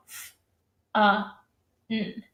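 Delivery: sounds said one by one; modeling sounds of fun one at a time; segmented phonemes. Shown as a demonstration. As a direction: pull the sounds of "fun" apart. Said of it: "they have to go".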